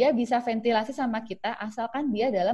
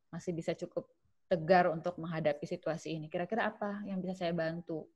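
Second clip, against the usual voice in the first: soft empathetic listener; 4 dB quieter than usual. Shown as a demonstration.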